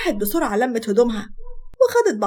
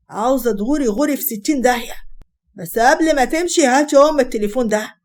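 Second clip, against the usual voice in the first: louder, mildly acted husband's yell; angry yelling; 6 dB louder than usual. Husband throwing wife out and demanding the phone, mild yelling. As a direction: order them out with a touch of fury. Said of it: "أحمد بزعيق".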